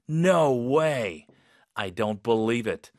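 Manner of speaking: drawn-out "no way", then slow incredulity; disbelieving. Shown as a demonstration. Teacher demonstrating tone for unbelievable news, disbelieving. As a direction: say it as though you can't believe it. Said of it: "약간 이런 톤으로".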